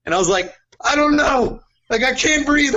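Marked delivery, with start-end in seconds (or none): 0.8-1.6 much higher, strained panicky whine; panicked whine. Retold or imitated. Retold panic, voice cracking high. 1.9-2.7 much higher, strained panicky whine; panicked whine. Retold or imitated. Retold panic, voice cracking high.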